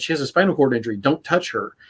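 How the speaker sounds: level, steady and explaining; calm firm warning after the snap; calmer explanation. Retold or imitated. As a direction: settle him down with the reason. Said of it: "then I had to make it better".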